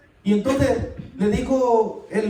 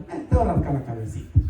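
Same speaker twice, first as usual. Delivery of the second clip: tender husband voice; 6 semitones lower, faster than usual. Retold or imitated. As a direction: croon it like a husband babying his wife. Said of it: "Cómo se dice en Guatemala".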